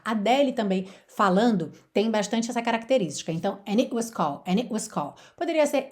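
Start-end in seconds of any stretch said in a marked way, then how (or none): 3.7-5.2 London accent, "it" with no T, abrupt stop; London-style cut on "it"; London glottal cut. Shown as a demonstration. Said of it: "sotaque ali de Londres". (sotaque de Londres, T cortado)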